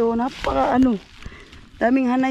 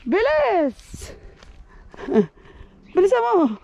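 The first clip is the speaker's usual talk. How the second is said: while running; 11 semitones higher, slower than usual. Real, not acted. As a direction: shout at the dog to hurry, laughing. Laughing, calling dog running.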